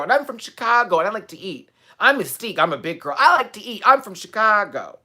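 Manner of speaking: loud, high mocking chant of her catchphrases; sassy mock drag queen chant; mocking Mystique. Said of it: "to let you know that".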